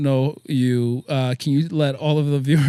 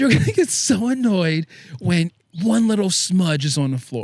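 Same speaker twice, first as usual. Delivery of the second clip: pestering, nagging put-on voice; 4 semitones higher than usual. Telling another speaker what his wife kept saying, imitating his wife's voice. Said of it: "but I have to do the voice".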